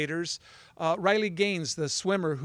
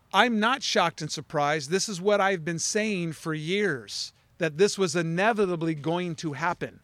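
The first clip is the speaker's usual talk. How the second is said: slow quote. Retold or imitated. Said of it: "She goes".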